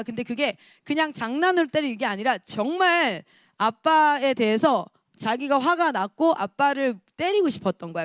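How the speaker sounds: ordinary delivery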